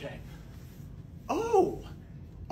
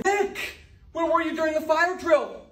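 higher, louder call; 13 semitones higher, 5 dB louder, slower than usual. Acted. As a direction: yell his name, then demand. Principal calling out student.

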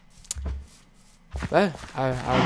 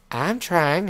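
higher-pitched, hard-pressed plea; mildly desperate protest; pleading protest; 5 semitones higher than usual. Pretend. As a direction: plead that you are doing your best. Pleading with animals while struggling.

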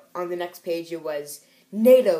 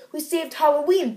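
mock triumphant; 9 semitones higher, 6 dB louder than usual. Heroes celebrate victory.

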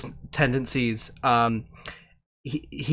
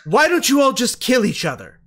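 sly suggestion; 7 semitones higher than usual. Acted. Doctor casts mass suggestion.

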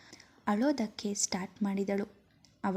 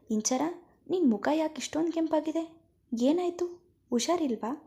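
high, quick anxious questions; worried; 6 semitones higher, faster than usual. A narrator's reading. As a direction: pitch rising with worry over her friend. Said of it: "ಆತಂಕಪಟ್ಟುಕೊಂಡು". (ಆತಂಕದಿಂದ ವೇಗವಾಗಿ ಎತ್ತರದ ಧ್ವನಿಯಲ್ಲಿ ಪ್ರಶ್ನೆ)

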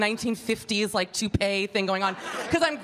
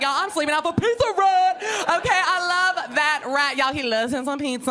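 excited fangirl; 5 semitones higher than usual. Pretend. Picturing lining up for Pizza Rat, giddy fangirl. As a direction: beg to camp out for the rat.

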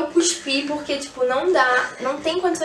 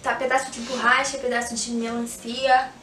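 talking with candy in mouth; speaking through a chewy mouthful; chewing while talking. Real, not acted. Seen 2: Grimacing, closed-lip mouth movements while talking; candy tasting video context.

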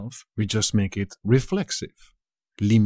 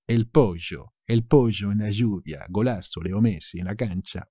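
Argentine accent; 3 semitones lower than usual. Shown as a demonstration. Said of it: "they will make sh out of it".

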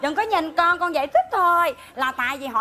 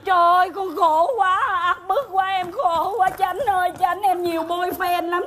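hammed-up crying lament, louder and higher; mock wailing; 5 semitones higher, 4 dB louder, slower than usual. Daughter wails to the village court, hammed-up crying. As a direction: wail your misery like a stage heroine.

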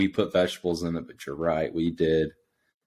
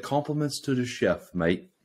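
mock Welsh accent drifting toward Australian; botched Welsh accent; 3 semitones higher, 5 dB quieter than usual. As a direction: imitate a Welshman's praise in a shaky accent. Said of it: "I love the Welsh accent".

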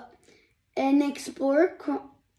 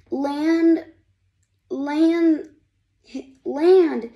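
louder, higher urgent land commands; nervous; 4 semitones higher, 5 dB louder, much slower than usual. Acted. Friend urging the robot to land, nervous. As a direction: urge it anxiously, repeating. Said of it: "his friend said nervously".

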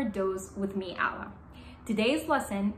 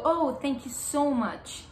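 higher, slow heartfelt thank you; grateful thanks; 4 semitones higher, slower than usual. Shown as a demonstration. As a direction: thank your friend warmly. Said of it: "So you go".

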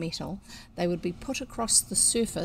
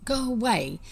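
fierce; 4 semitones higher, 4 dB louder than usual. Acted. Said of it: "said Anthea fiercely".

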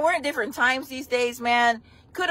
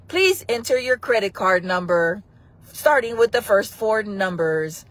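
automated voice; 4 semitones lower than usual. Pretend. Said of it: "when I do the phone calls".

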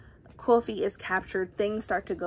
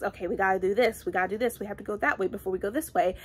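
planner Ekon; faster than usual. Retold or imitated. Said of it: "He's by the book, like, tactics".

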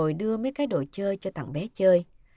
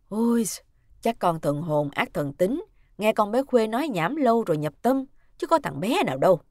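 louder, brushing off a silly worry; brisk, louder dismissal from a mother-in-law; dismissive; 5 dB louder than usual. Acted. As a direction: wave it away as nonsense. Bà phẩy tay gạt đi.

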